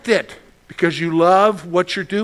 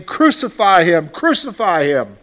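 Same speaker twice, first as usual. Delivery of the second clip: crowd crying out; 4 dB louder than usual. Acted. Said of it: "they cried out, saying".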